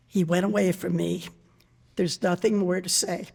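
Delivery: gentle, low recital of a poem; poem reading. Acted. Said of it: "This one by Langston Hughes".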